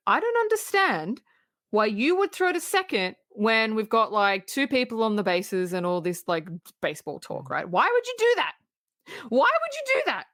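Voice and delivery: worked-up mock scolding; exasperated coach berating. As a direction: berate a player, pitch climbing into disbelief. Acting out Jimmy berating Evelyn.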